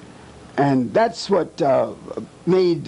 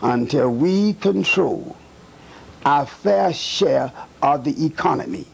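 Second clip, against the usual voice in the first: slow, weighty delivery, leaning on fair share; retold emphasis. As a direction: press each word of "until we control our fair share". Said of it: "with such an emphasis".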